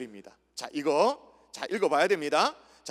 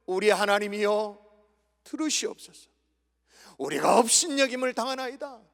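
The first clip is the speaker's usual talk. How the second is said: pleading prayer. Acted. Preacher prays as Nehemiah to God, pleading prayer. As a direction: pray the verse as an appeal. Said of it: "기도하고 있는 거예요".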